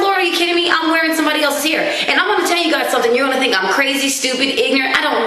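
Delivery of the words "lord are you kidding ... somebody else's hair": pitched up, fast, aghast at the wig; horrified realization. Retold or imitated. Vlogger retelling shock at wearing someone's hair, raised aghast voice. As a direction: blurt it out in disbelief.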